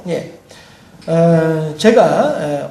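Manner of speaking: ordinary delivery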